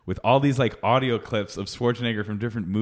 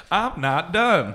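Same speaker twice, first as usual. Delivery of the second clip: slow, higher mock protest; indignant barbecue customer; 5 semitones higher, much slower than usual. Second joker joining the barbecue prank call, indignant. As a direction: drag it out as a stubborn diner. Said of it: "call various North Carolina barbecue establishments".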